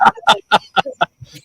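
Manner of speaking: loud mock cackle; imitated laugh. Vinny hearing Victoria's Southern greeting, loud imitated laughter. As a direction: burst out laughing as the parking guy. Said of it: "And he was like".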